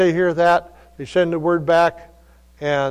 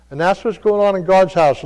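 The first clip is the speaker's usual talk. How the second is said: normal talking voice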